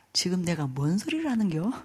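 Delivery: hushed retold self-questioning; muttering inwardly. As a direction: act out a startled inner thought, under the breath. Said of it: "속으로 이랬어요".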